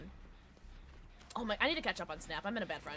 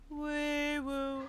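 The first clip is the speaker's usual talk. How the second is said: soft wee woo; 6 semitones higher than usual. Pretend. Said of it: "You know that one?".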